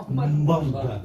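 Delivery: Murder with a rolled Scottish r and a falling end; Scottish dialect. Shown as a demonstration. Teaching the audience their part, Murder in a Scottish burr. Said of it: "my favourite word of all is murder".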